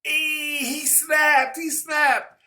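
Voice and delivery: high, loud mock hype; hyped YouTube reactor. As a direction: imitate an overexcited reactor shouting. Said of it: "a YouTube reactor is just like".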